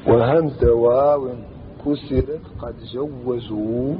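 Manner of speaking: slow, measured recitation of didactic verse. Shown as a demonstration. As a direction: draw out each foot of the poem. Recites the grammar poem. (إنشاد متأنٍّ لمنظومة نحوية)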